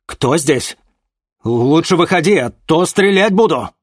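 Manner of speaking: high, loud, nervous soldier's call; trembling voice. Acted. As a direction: threaten while scared stiff. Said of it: "сказал один из них дрожащим голосом".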